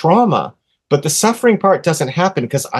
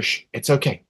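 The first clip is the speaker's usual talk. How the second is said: hushing; 8 dB quieter than usual. Retold or imitated. Hushing wife at the door.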